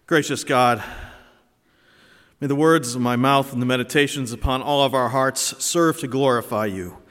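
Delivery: formal, projected pulpit prayer; public prayer. Real, not acted. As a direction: lead a congregation in earnest prayer. Leads the congregation in prayer.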